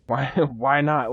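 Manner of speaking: laughing through why not. Real, not acted.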